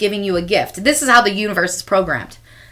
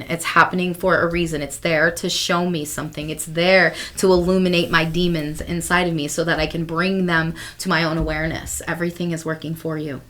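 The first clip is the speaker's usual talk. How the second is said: soft affirmation; 4 semitones lower, 6 dB quieter than usual. Pretend. Self-talk mantra in hard moments.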